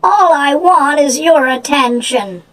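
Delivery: high, half-sobbed confession; a needy ogress breaking down; a touch of tearful pleading. Acted. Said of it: "began to sob".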